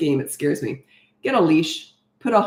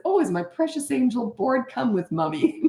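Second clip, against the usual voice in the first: mock sweetness; 5 semitones higher, 3 dB quieter than usual. Mom mocks bored son sweetly.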